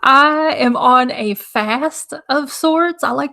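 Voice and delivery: rough, crackling voice; dry crackling throat; crackly voice. Real, not acted. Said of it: "my voice is crackling so bad".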